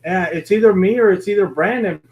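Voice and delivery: ordinary talk, nothing marked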